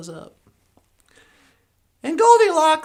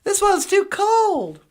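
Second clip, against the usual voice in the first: higher, slow southern drawl; southern accent; 5 semitones higher, 3 dB louder, slower than usual. Acted. Storyteller redoing Goldilocks' complaint about the bowl, playful southern accent. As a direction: lean into the southern accent, drawn out. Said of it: "My southern accent just came back".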